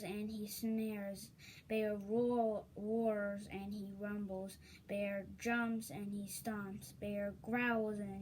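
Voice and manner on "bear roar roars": loud roaring read. A narrator's reading. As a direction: roar the line out. Bear roars in story.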